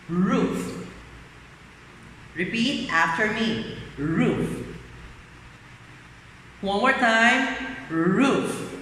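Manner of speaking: put-on spoken slowly for children to copy; drawn out drill word. Shown as a demonstration. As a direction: model the word for a class.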